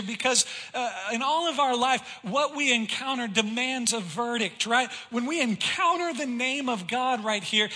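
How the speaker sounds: preaching, rising and pressing toward the people. Acted. Preacher urging the church to decide for God, preaching with force. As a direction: press the congregation toward a verdict.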